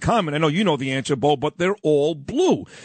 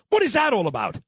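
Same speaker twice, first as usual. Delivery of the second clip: indignant shout; 4 semitones higher, faster than usual. Real, not acted. Indignant question about mayor.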